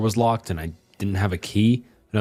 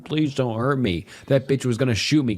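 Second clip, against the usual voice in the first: mock sobbing plea; 5 semitones higher than usual. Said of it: "she's just crying and saying".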